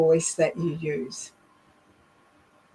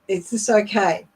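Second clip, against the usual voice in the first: firm, level "Is this okay?" with no lift; confident statement; 2 semitones higher than usual. Shown as a demonstration. Coach showing students a confident, level question. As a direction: say it as a definite statement. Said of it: "it's much more of a definite, confident statement".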